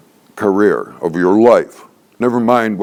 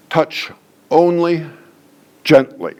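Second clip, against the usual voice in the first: slow, raised "Touch only", pause, then "gently"; emphatic statement; 5 semitones higher than usual. Shown as a demonstration. Trainer stating the third pillar, "Touch only gently" slow and emphatic. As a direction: spell out "Touch only gently" with weight on each word. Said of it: "emphatic, em-, uh, statements".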